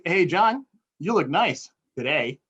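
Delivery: "John" rising, then "you look nice today" with "look" stressed; brightly surprised "Hey, John", punching "look"; surprised compliment. Shown as a demonstration. Speaker's fourth inflection for John, brightly surprised. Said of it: "Or, or I could say".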